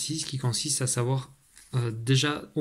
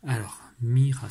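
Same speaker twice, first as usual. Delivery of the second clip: slow dictation; 3 dB louder, slower than usual. Shown as a demonstration. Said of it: "à toi d'écrire mira".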